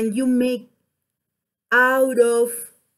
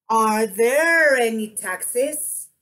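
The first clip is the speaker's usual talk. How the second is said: long "there", upturn on "taxis"; deliberate rising end on "taxis"; question intonation. Shown as a demonstration. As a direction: slowly model the question, lifting "taxis". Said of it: "let me see what I do".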